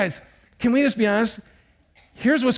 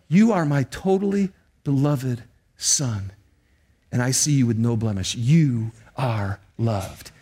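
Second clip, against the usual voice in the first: tender assurance; 6 semitones lower than usual. Acted. God speaking tenderly to his son.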